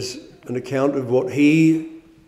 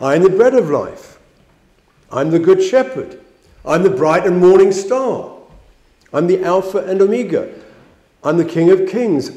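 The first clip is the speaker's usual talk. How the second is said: proclaiming; 4 semitones higher, 4 dB louder than usual. Acted. Preacher proclaiming Christ's I AM sayings.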